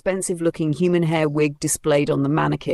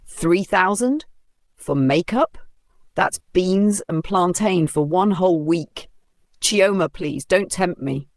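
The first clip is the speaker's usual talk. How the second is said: scornful; 2 semitones higher than usual. Acted. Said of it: "Kudi hissed deeply".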